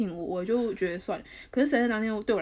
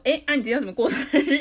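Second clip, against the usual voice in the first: laughing retelling of own question; 3 semitones higher, 5 dB louder than usual. Retold or imitated. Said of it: "我就说".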